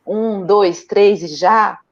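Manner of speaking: slow, drawn-out countdown to go; playful slow one, two, three, go; counting game. Shown as a demonstration. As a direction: stretch each count out like a game with a child. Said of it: "fazer aquela coisa do um".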